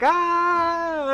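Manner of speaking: high surprised exclamation; imitating a startled crowd; mock gasp of surprise. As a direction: sound suddenly startled. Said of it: "they're all like".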